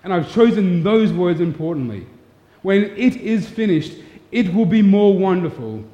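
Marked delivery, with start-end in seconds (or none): 2.6-5.8 God speaking to the serpent. Acted. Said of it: "he says".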